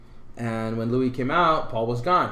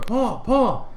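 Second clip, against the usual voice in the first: calling through door; 9 semitones higher than usual. Retold or imitated. Knocking on the hotel door to wake Paul, calling out. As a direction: call his name through the door.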